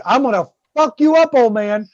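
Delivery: lightly acted angry raccoon; mad raccoon. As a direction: voice an angry pet sizing up a fight. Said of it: "and she's mad".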